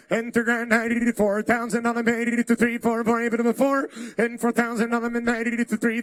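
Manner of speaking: rhythmic rapid auction chant; auctioneer. Acted. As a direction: rattle off the bids like an auctioneer. Auction chant calling bids.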